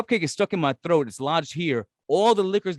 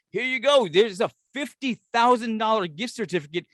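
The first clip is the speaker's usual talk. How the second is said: mock prize announcer; 4 semitones higher than usual. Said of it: "they're like".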